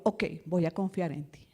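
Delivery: low, hushed reply to God; near-whispered private promise; whispered submission. Retold or imitated. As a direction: whisper it, giving in quietly. Retells her answer to God.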